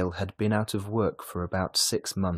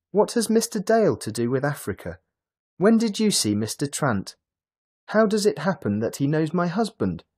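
higher, louder puzzled questions; surprised; 9 semitones higher, 5 dB louder than usual. A narrator's reading. Mrs Dale questioning Lily about Trant, surprised. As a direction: ask in startled bewilderment. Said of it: "Missus Dale asked in surprise".

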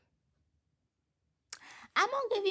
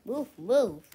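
calling out; 6 dB louder than usual. Real, not acted. Shooing mom out of frame.

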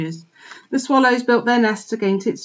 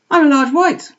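high, louder little piglet voice; 8 semitones higher, 8 dB louder than usual. A narrator's reading. Piglet telling the dogs his breed, small and high. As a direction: chirp it like a proud small pig.

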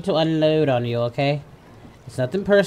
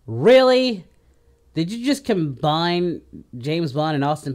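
incredulous; 5 dB louder than usual. Real, not acted. Disbelief at the joke.

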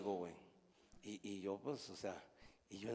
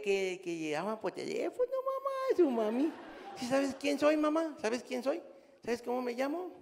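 high sweet phone voice; 8 semitones higher than usual. Retold or imitated. Grandpa teasing granddaughter on the phone, high coo. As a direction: tease her like a doting grandpa. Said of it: "le digo".

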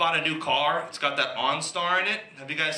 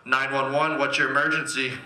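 dispatcher voice; 3 semitones lower than usual. Retold or imitated. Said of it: "It sounds like this".

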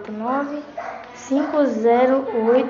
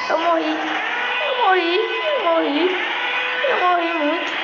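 frustrated shout; 7 semitones higher than usual. Real, not acted. Dies in the game.

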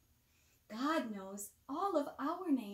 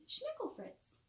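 playful name call; 13 semitones higher, 4 dB quieter than usual. A narrator's reading. Funny pony name, sung out.

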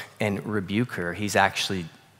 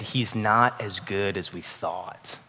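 quiet doubting murmur; 7 semitones lower, 8 dB quieter, slower than usual. Retold or imitated. Adam and Eve's doubting hearts.

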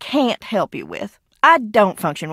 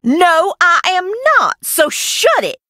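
higher, louder furious denial; angry denial; 9 semitones higher, 3 dB louder than usual. Real, not acted. Denying she fakes the hauntings, angry raised voice. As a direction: snap back at her.

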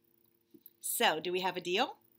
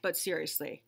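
lightly voiced bunny, impatient and fed up; a put-upon bunny stuck waiting; bored bunny; 5 semitones higher, 7 dB louder than usual. Bunny complaining to the reader about waiting, mildly whiny.

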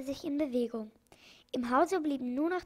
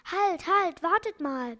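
high, loud cry of alarm; excited call; 5 semitones higher, 7 dB louder than usual. A narrator's reading. Doctor stopping the departing ship, calls out excitedly. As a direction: shout for them to stop, all in a fluster. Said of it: "rief der Doktor plötzlich ganz aufgeregt".

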